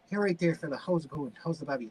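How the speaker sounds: lightly imitated Irish accent, softening as it goes; nice Irish accent. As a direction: play a friendly Irish guy on a helpline. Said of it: "like, a nice Irish dude".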